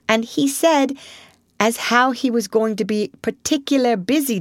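earnest little hedgehog recounting his troubles; humble young hedgehog. Acted. Young hedgehog explains himself to the Rat, humble. Hedgehog's reply, skipping narration tags.

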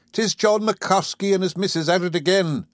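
lightly voiced Irish policeman. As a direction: muse aloud like an Irish beat cop.

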